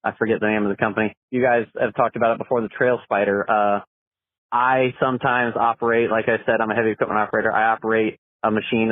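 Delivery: phone message playback; recorded caller on the line; voicemail. Real, not acted. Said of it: "let's see what the caller has to say".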